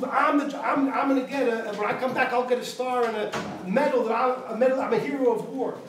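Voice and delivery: loud, high glory-seeker's brag; mock boasting. Acting out glory-seeking soldiers' boasts.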